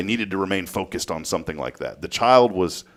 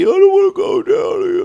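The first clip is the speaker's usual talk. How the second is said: put-on very high, loud toddler whine; fussy child; 6 dB louder than usual. Dad imitates daughter fussing in line, high fussy whine. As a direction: whine like a fussy little girl. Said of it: "But she was fussy".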